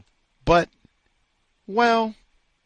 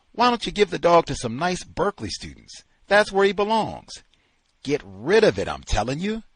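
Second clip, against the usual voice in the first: angry; 5 semitones higher, 5 dB louder, faster than usual. Acted. Angry tirade.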